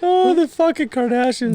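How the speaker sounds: high, slow, drawn-out scorn; mocking disdain. Real, not acted. Friend sneering at the Kardashians show, drawn-out scorn. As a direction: stretch it out in mock disgust.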